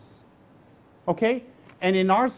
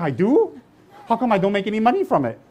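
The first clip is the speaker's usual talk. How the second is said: mock surprised; 2 semitones higher than usual. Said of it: "I was thinking".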